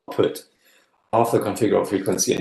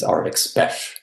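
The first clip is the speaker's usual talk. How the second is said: joking clipped coinage; 4 semitones lower than usual. Pretend. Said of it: "you might say".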